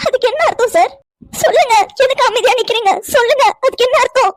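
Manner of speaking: agitated, demanding confrontation. Acted. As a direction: press him angrily for an answer. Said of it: "எதுக்குடி இப்படி சத்தம் போட்டுட்டு இருக்க". (கோபமாக அதட்டிக் கேட்கும் குரல்)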